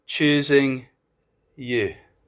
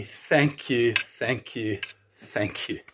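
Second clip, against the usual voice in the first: grateful thanks; 2 semitones lower, 6 dB quieter, slower than usual. Acted. Models grateful response to God.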